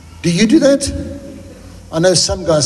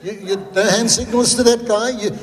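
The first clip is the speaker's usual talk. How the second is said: higher, mock-stern self-talk; scolding himself; 6 semitones higher than usual. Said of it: "I say".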